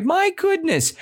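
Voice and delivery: very high delighted exclamation; proclaimed nicely. Acted. Teacher voicing what the old woman proclaimed, exclaimed. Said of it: "she proclaimed nicely".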